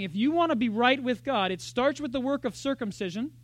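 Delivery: lightly voiced insistent legalist; false teachers. Workers pressing Gentiles to be circumcised, lightly insistent. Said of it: "they were saying".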